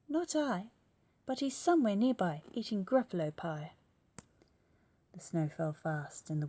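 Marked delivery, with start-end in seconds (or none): 0.1-3.7 owl. Acted. Owl answers child.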